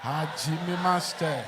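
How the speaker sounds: put-on slow, soft learner's Japanese accent; hesitant beginner Japanese accent. Learner repeats teacher's Japanese phrase.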